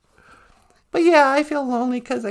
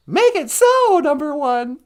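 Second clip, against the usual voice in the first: the captain gives the teleport order; starship captain; 2 semitones higher, 5 dB louder than usual. Pretend. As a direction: give the order grandly. Star Trek catchphrase.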